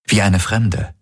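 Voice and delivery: usual speaking voice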